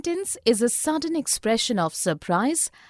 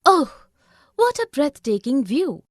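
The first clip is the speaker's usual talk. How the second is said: exclamation; 4 dB louder than usual. Shown as a demonstration. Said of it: "examples of sentences with an exclamation".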